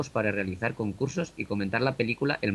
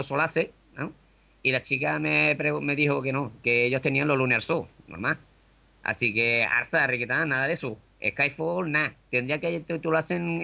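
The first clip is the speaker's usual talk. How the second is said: put-on raised, lively Sevillian accent; Andalusian accent; 5 semitones higher than usual. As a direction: play a cheeky Sevillian. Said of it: "Desde Sevilla tenemos a El Ramón".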